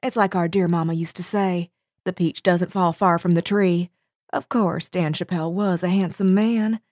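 lightly drawled Southern saying; Southern accent. Acted. Cater Lee quoting her mama, Southern accent. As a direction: quote mama like a Southern lady. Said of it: "That was an excellent accent".

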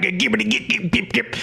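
high, quiet gibberish babble; Charles Manson impression. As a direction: mimic Manson's nonsense talk. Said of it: "what Charles Manson would say".

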